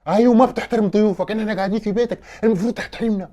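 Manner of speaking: offended, insistent complaint; indignant scolding. Acted. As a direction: scold the host, voice up. Guest scolds rude host.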